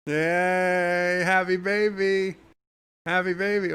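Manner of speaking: drawn-out, singsong happy cheer. Real, not acted. Uncle to baby nephew on camera, excited baby talk.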